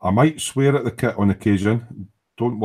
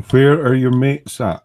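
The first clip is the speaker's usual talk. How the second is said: calling out; 6 semitones higher, 9 dB louder, slower than usual. Retold or imitated. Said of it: "Charles is going".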